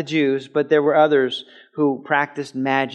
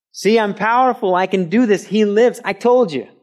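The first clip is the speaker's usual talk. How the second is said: triumphant Jesus; 7 semitones higher, 4 dB louder than usual. Acted.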